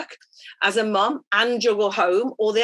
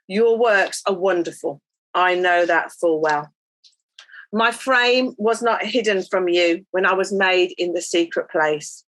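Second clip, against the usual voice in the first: psalm reading. Acted. Reads Psalm 139 aloud.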